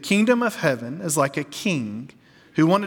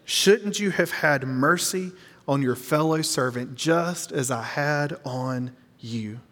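slow, weighty reading; slower than usual. Shown as a demonstration. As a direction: linger on "just as I had on you" so nobody misses it. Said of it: "I don't want you to miss this".

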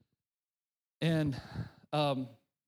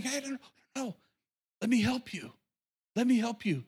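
God gently intervening; 4 semitones higher than usual. Acted. God stopping someone to offer help, gently intervening. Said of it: "That's God saying".

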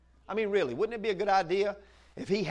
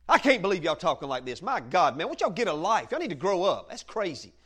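mock rude scolding; 4 dB louder than usual. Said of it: "don't you be ugly and rude".

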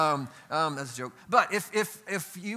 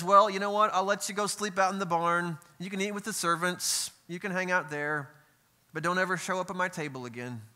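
stern father; 3 semitones higher than usual. Acted. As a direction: play the strict dad who grudgingly lets him stay. Father's imagined stern verdict.

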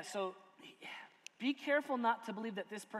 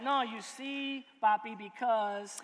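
mock wife voice; 3 dB louder, slower than usual. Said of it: "I don't sound like that".

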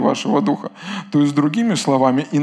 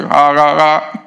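fake laugh; 6 dB louder, slower than usual. Shown as a demonstration. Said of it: "скажите".

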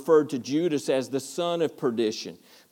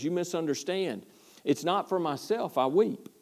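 soft, quiet and sincere; Paul gently correcting; 2 semitones higher, 5 dB quieter than usual. Retold or imitated. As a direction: let it drop to almost a hush. Paul answers the jailer gently.

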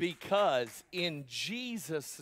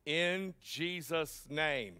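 tossed-off tagline; much slower than usual. Retold or imitated. Pastor mocking the tagline ending, throwaway tone. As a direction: drop "In Jesus' name" as a lazy tag. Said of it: "they just add a tagline".

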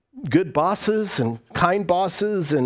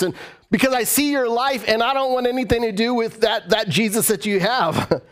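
higher, disbelieving rebuke; mock indignant challenge; 4 semitones higher than usual. Preacher voices onlooker rejecting a hypocrite's faith, indignant challenge. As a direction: act out calling someone a hypocrite.

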